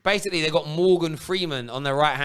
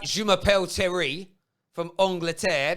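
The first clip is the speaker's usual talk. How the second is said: tag French attempt; 3 semitones higher, slower than usual. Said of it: "when I say".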